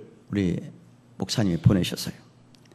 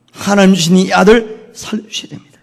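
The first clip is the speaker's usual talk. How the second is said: louder, raised-pitch acted plea; prayer; 8 semitones higher, 9 dB louder than usual. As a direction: call out to God for the child's life. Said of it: "아들을 안고 기도를 합니다".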